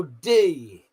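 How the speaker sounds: "D" said as a clear stressed "dee"; stressed first syllable. Shown as a demonstration. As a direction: hit "D" hard as the first syllable. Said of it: "The emphasis is on the first syllable".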